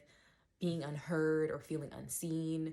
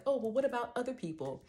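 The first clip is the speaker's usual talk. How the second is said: higher, whiny put-on voice; mocking commenter; 8 semitones higher, 5 dB louder than usual. Mocking a commenter who deflects, in a whiny voice. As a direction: mimic the defensive commenter with scorn.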